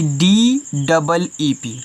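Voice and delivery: letters spelled out slowly, one by one; slow spelling. Shown as a demonstration. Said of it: "इसे यहाँ पे दिया गया है". (अक्षर धीरे-धीरे बोलना)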